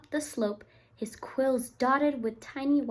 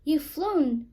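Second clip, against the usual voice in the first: cried out; 3 semitones higher, 6 dB louder than usual. Acted. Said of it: "Fletcher cried".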